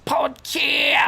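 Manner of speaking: high hyped-up show intro; show announcer. Pretend. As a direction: sell the podcast name like a host. Hyping the show name.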